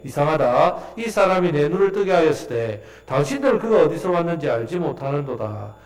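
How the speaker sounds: measured, half-chanted Bible reading; scripture reading. Acted. Preacher leading the congregation in the man's answer, formal reading.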